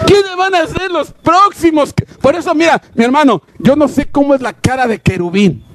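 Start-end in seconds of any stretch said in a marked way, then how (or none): 0.1-2.1 high, urgent preaching cry; impassioned challenge. Real, not acted. Preacher asking who will be the next ones, high impassioned cry. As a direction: throw the question out high to the congregation.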